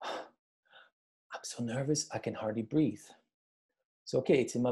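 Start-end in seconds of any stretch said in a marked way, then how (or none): 0.0-3.0 nervous. Shown as a demonstration. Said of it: "For example".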